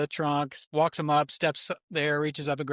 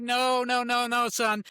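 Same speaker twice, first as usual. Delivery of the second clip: insistent dad; 9 semitones higher, slower than usual. Retold or imitated. Dad corrects his crying son.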